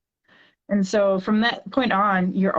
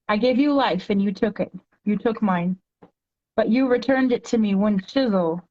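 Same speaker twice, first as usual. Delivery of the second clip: poem reading. Acted. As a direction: read it like a heartfelt poem to a child. Reads her poem aloud.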